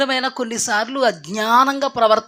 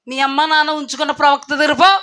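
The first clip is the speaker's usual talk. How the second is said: mocking retort; 5 semitones higher, 4 dB louder, faster than usual. Elisha mocks King Jehoram.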